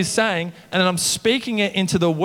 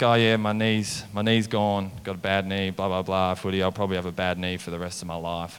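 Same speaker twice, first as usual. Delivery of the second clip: mock complaining kid; 10 semitones lower, 5 dB quieter than usual. Mocking kid's complaints.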